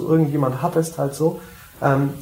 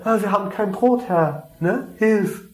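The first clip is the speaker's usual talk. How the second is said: whiny helpless plea, a touch higher; mock pleading disciples; 5 semitones higher than usual. Preacher mimics disciples begging Jesus, mock whiny plea. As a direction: play the panicked disciples begging for help. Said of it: "Dasselbe, ne?".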